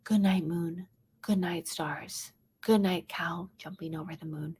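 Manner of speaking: soft, hushed bedtime reading; gentle hushed storybook voice; mother's soft bedtime whisper. Retold or imitated. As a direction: read it like tucking a child in. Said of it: "she would whisper in the book".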